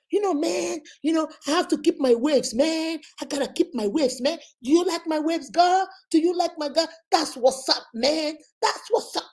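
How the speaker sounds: imitated American accent; mock American accent. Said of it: "You want to show us America".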